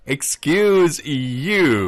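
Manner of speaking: slow, indignant tease; mock offence. Real, not acted. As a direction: stretch it out, playfully affronted. Mock offence at co-host's story.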